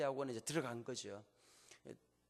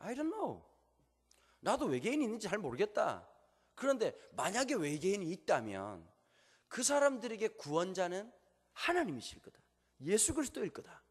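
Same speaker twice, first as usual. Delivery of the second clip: quoting the professor; 5 semitones higher than usual. Retold or imitated. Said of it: "이렇게 말하는 거야".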